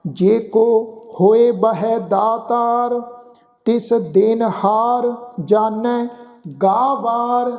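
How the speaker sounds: slow, devout chanting, each phrase drawn out; gurbani recitation. Acted. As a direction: chant the verse with reverence.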